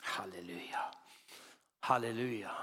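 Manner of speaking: breathy unvoiced hallelujah under the breath; whispered hallelujah. Real, not acted. Preacher whispering praise between sermon points. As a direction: murmur it to yourself, almost silent.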